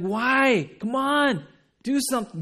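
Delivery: high, impatient jeer; loud-edged, scornful demand; mocking. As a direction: taunt him to act. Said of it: "were originally mocking Jesus".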